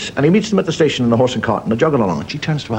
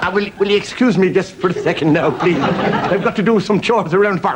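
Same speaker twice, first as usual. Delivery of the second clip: higher, mildly panicked politeness; flustered excuse; 5 semitones higher than usual. Acted. Farmer hiding his still from customs, flustered. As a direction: stammer an excuse to slip away.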